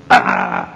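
short mock cry of pain; a cut-off cry as the shot hits; retold scream. Witness recalling the prisoner's scream, understated. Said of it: "y un grito".

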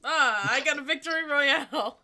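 loud, laughing victory cheer; excited celebration. Real, not acted. Player celebrating a win to teammates, excited. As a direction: crow loudly over a win with a laugh.

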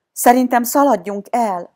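high, loud, urgent suggestion; Varga Liza suggesting. A narrator's reading. Girl suggests to the gang they flee, urgent. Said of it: "javasolta Varga Liza".

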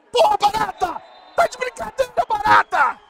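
high, loud disbelieving shout; exasperated yell. Real, not acted. Streamer furious at his goalkeeper, shouting in disbelief.

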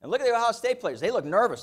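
pointing it out. Retold or imitated. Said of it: "She goes".

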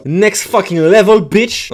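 slow pumped title call; hyped announcer. Acted. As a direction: belt the title like a hype man.

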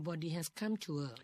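very slow careful echo; slow repeat. Shown as a demonstration. Co-host practises the sentence again, very slow. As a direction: practise it back slowly. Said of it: "ก็เป็นวิธีที่ดีที่สุด".

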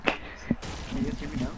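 distant, muffled broken mic; far from the mic. Real, not acted. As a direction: voice coming from across the room. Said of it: "no, you're too far".

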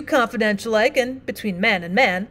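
lightly voiced plain-spoken miner, apologetic; rough miner partner. Partner pleads.

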